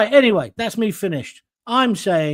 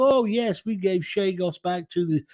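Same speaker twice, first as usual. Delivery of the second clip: sarcastic mock boast. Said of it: "You wanna tell people".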